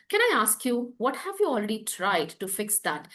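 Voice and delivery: soft, curious question with a light rise; gentle curious. Shown as a demonstration. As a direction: ask gently, with real curiosity. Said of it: "It's gentle, it's curious".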